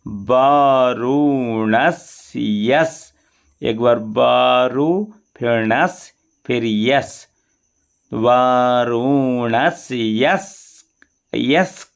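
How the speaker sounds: वरुणस्यस broken into "वारु", "नस", "यस"; syllable by syllable. Shown as a demonstration. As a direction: spell out वरुणस्यस in parts. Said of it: "यहाँ ध्यान दें थोड़ा". (वरुणस्यस को टुकड़ों में बोलें)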